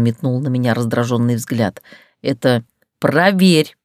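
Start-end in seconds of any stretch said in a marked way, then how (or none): 2.2-3.8 slow, louder demand; insist, voice raised on «проверь». Acted. Heroine raises her voice at Tergran, slow firm demand. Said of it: "Я повысила голос".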